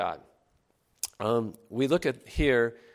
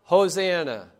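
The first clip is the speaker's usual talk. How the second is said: higher, louder Hosanna leading the crowd; called-out Hosanna; 6 semitones higher, 6 dB louder than usual. Shown as a demonstration. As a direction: ring it out for them to echo. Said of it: "Once again".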